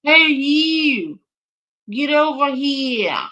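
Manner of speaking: imitating a Boston accent, loud and high. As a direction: bark it out like a Boston cop. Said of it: "This had to be in Boston".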